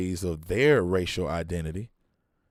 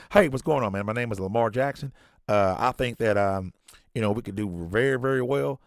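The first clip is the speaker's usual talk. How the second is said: mock code-switching lawyer; 2 semitones higher than usual. Preacher mocking a code-switching coworker, lightly put on. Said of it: "as long as you can talk like this".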